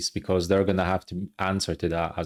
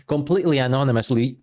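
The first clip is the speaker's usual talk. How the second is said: mocking echo; 3 semitones higher, faster than usual. Real, not acted. Reacting to the police statement, mocking echo. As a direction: scoff at the word anonymously with a rise.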